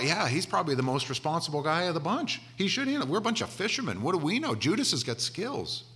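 a hint of gullible fishermen vouching for Judas; mock-trusting disciples talk each other into it; naive fishermen.

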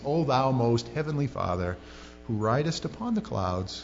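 lightly mocked pious prayer; King James prayer. People praying like masters of King James, mildly mock-pious. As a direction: pray in mock old-Bible grandeur, understated. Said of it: "they get all King Jamesy".

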